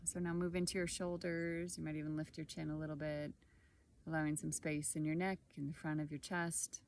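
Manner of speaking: calm meditation guide, long pauses between short phrases; guided body scan. Acted. Guide leading listeners through a body scan, calm and unhurried. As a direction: guide gently through the body, leaving space after each phrase.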